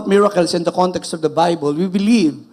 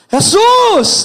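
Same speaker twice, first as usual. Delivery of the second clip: loud, much higher desperate cry; shouting; 8 dB louder than usual. Acted. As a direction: call out across the crowd. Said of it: "sumisigaw si Bartimeo". (sigaw ng pagtawag)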